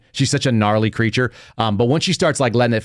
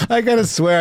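ordinary talk, nothing marked

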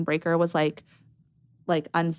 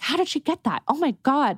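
squealed, pitched way up in disbelief; stunned surprise; 8 semitones higher than usual. Retold or imitated. Founder seeing a star in her product, high amazed squeal. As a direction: gasp it out amazed. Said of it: "And I was like".

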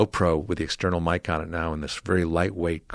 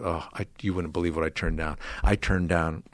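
smiling quote; 4 semitones lower, 6 dB quieter than usual. Retold or imitated. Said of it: "And he smiled".

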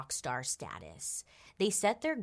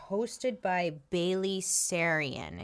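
slow announcer read; 2 semitones higher, 4 dB louder, much slower than usual. Shown as a demonstration. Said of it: "it says".

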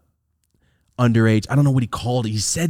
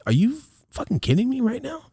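high, hurt disbelief. Retold or imitated. Son hurt that dad threatens a warrant, high disbelief. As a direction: cry out in wounded disbelief. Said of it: "I was very, like, hurt by it".

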